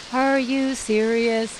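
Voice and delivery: slow, drawn-out incredulous question; toned-down, deliberate astonishment; retold disbelief. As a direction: stretch each word out in mock disbelief. Cleaned-up version of her shocked reaction.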